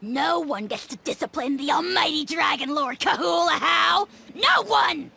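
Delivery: offended yell at the mere idea of discipline; indignant outburst. Acted. Refuses to be disciplined.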